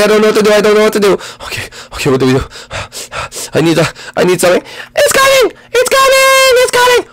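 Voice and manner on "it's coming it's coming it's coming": very high panicked cry; high-pitched birth scream; screaming princess in labour. Acted. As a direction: shriek it out. Peach in labour.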